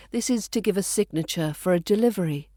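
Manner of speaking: ordinary talk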